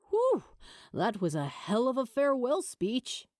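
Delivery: breathy awed whistle, then amazed; in awe. Acted. Eric marvelling to Tony at the speech, awed. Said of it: "Eric said in awe".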